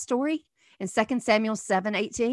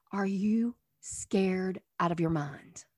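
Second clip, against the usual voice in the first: hushed whisper, drawn out; whispered question; 4 semitones lower, 7 dB quieter than usual. Real, not acted. Preacher asks the congregation, in a hushed whisper. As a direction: breathe the question like a secret. Preacher asking listeners about fear.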